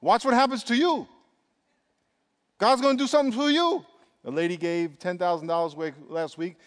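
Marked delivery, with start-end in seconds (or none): 0.0-3.8 higher, climbing preacher's promise; rising fervor. Real, not acted. Preacher promising the congregation, rising fervor. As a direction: build it up with fervor.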